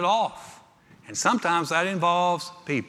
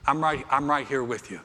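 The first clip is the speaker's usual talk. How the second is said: comforting parent; 3 semitones lower than usual. Acted. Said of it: "You're like".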